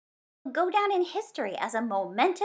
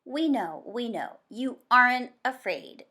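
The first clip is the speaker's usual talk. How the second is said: interrupting; 2 semitones higher, 5 dB louder than usual. Acted. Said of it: "Zoe interrupted".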